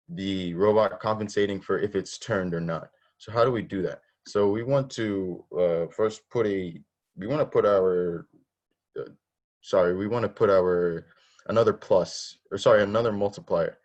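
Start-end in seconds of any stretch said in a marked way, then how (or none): 4.3-13.8 stumbling over words, restarting; stuttering. Real, not acted. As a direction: stammer and restart the phrase. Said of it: "I'm stuttering a lot today".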